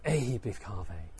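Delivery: low, steady call; firmer invitation. Shown as a demonstration. Teacher trying another way the Buddha said it, firmer invitation. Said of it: "how did he say them".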